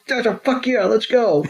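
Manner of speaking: high, gleeful mock Pikachu cheer; excited cheer. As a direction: cheer it like a happy little critter.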